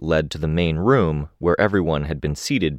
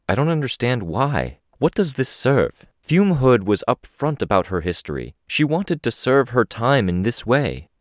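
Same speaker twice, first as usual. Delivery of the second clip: lightly voiced woman, pitched higher; a higher-pitched, puzzled objection to the officer; questioning district rep; 7 semitones higher than usual.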